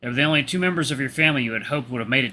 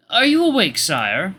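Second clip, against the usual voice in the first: high, loud servant call; high-pitched attendant rousing royalty; 7 semitones higher, 5 dB louder, slower than usual. Acted. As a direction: call to the sleeping prince in a high voice. Servant calls through the door.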